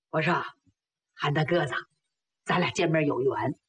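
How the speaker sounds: low, measured sincerity; earnest confiding. Acted. Young hero earnestly proposes friendship.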